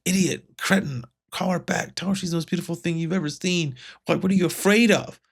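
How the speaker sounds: mildly acted self-reproach, speeding up; self-berating. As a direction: imitate someone scolding himself, voice lifted. Retold character berating himself in frustration.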